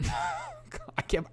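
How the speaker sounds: high, breaking up with laughter; laughing. Real, not acted. Reading a lurid article aloud, cracking up. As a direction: try to speak while cracking up.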